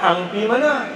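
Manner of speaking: Kedah Malay, mana stretched long; Kedah dialect. Shown as a demonstration. Newcomer suddenly hearing a Kedah local, Kedah accent. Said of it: "tiba-tiba dengar orang Kedah".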